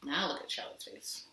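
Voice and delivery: 1 whisper. A narrator's reading. Whispered calm after resting.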